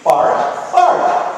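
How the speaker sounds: puppy bark words; speak dog. Shown as a demonstration. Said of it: "teach you to speak dog".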